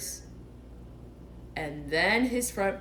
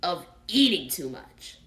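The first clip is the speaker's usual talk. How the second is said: stern; 4 dB louder than usual. Acted. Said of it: "said Rabbit sternly".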